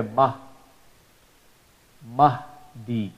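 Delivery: Mahdi with an open ah sound; correct Arabic Mahdi. Shown as a demonstration. Teacher showing students the right vowel, open ah. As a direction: say Mahdi with a clear ah. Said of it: "that's how you will pronounce here".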